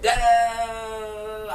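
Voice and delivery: high, loud held "da" babble; mock yelling noise. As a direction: imitate her yelling as one long noise. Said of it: "She was yelling for a minute".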